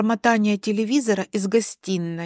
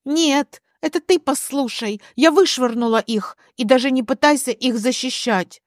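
raised-pitch indignant insistence; acted heated retort; angry counter; 3 semitones higher than usual. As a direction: cut him off and forbid excuses. Alina angrily silences husband.

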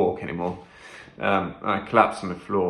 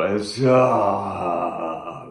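low voice demo; much slower than usual. Shown as a demonstration. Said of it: "like that".

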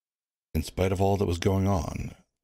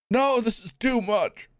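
much higher, slow outraged protest; outraged onlooker. Acted. Onlooker protesting to the wardens, outraged. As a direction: refuse to stand for it.

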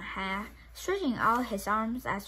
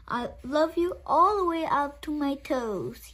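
higher, upside-down little hare; 6 semitones higher, 4 dB louder than usual. Acted. Little hare reaching the tree with his feet, higher. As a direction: strain a bit, hanging upside down.

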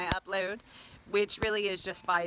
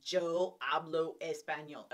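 American-accented Spanish; 3 semitones lower than usual. Shown as a demonstration. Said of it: "I speak Spanish like a white girl".

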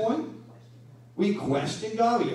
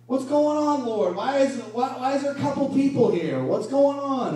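frustrated complaint to God; 5 semitones higher than usual. Retold or imitated.

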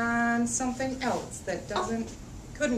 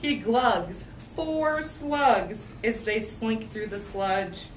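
lively picture-book read-aloud; reading to children; slower than usual. A narrator's reading. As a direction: read it out for a room of little kids. Reads picture book to kids.

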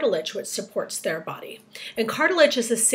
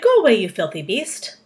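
loud narrated shout of disgust; acted-out angry shout; 7 dB louder than usual. A narrator's reading. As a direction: yell it at the beast, rising at the end. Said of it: "they shouted".

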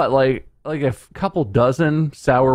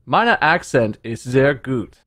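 put-on slow, unconvincing German accent; mock German; 2 semitones higher, slower than usual. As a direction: brag about the accent in German. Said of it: "our accents are very convincing".

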